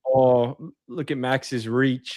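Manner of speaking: lightly put-on British accent. Showing what British dirty talk sounds like, British accent. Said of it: "in the British accent".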